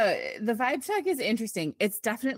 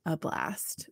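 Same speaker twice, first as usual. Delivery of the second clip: whispering; 3 semitones lower, 5 dB quieter than usual. Real, not acted. Whispered delight at the memory.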